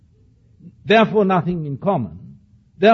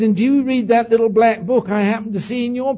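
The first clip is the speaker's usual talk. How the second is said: retold comeback; 7 semitones higher, 7 dB louder than usual. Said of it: "and he said".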